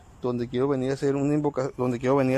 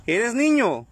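calling to the spirit; 7 semitones higher, 4 dB louder, much slower than usual. Real, not acted. Questioning the spirit aloud.

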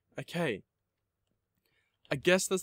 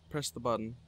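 ordinary talk, nothing marked

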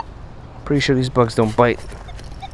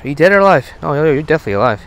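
higher, louder playful question; playful call to crab; 3 semitones higher, 3 dB louder, much faster than usual. Real, not acted. Talking to the crab.

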